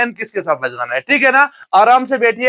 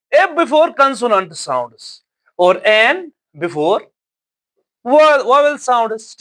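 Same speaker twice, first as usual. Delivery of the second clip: very slow, word by word dictation; slow rule reading; much slower than usual. Shown as a demonstration. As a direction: spell out the rule slowly for the class. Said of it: "teacher reading the rule slowly". (नियम धीरे-धीरे लिखवाते हुए)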